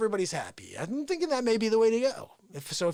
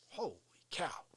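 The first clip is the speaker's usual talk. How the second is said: unvoiced nervous whisper; 6 semitones lower, 11 dB quieter than usual. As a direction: hush it, scared he's near. Nervous aside.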